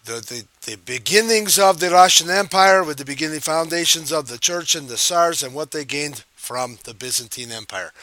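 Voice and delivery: teacher in a put-on Russian accent. Shown as a demonstration. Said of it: "We'll try to keep in the Russian accent".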